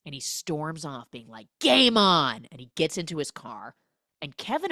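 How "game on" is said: loud, higher parting shot; mock defiant challenge. Neighbour storming off after the quarrel, mock defiant shout. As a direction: throw down the challenge loudly.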